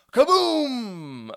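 loud high booming kaboom; explosion sound. Acted. Reader voicing the explosion, loud kaboom. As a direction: blast it like the explosion.

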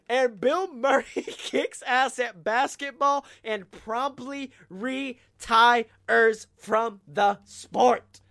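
loud, slow hyped storytelling. Acted. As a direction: keep hammering the triumphant punchline. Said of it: "keeps the hyped ending going".

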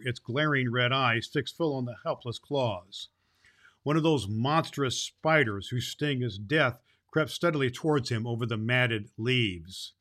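steady storybook reading voice, lively on the quotes; story narration. A narrator's reading. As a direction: read it like a fairy tale to listeners. Reads fairy tale aloud.

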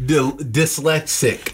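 dyslexic said slowly, syllable by syllable; slow careful pronunciation. Shown as a demonstration. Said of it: "Am I saying the word?".

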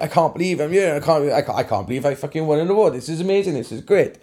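mildly excited, rushed replay of your own thoughts; lightly giddy retold excitement, words tumbling out; excited retelling. Tattooist retelling his thoughts waiting on stage, mildly excited. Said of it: "I'm like, excited".

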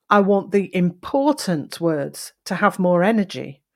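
extra energy and inflection on "important" and "energy"; stress on key words. Shown as a demonstration. Coach repeating a sentence to show emphasis, stressing "important" and "energy". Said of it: "the word important there and the word energy had emphasis".

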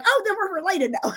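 amused mock reply; laughing quote. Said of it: "And I was like".

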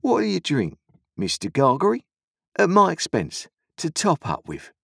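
high, loud ingratiating voice; sly stranger offering drinks. A narrator's reading. The stranger offers Joe rum, smooth and pushy. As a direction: coax him into a drink.

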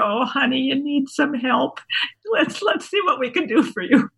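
high, coddling retold voice; mock pitying. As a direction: imitate someone gently taking pity. Imitating the group's pitying reply.

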